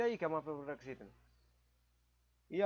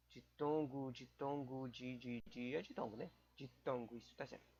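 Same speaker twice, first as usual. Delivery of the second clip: muttering to self; 4 semitones lower, 8 dB quieter than usual. Real, not acted. Muttering to herself, recalling term.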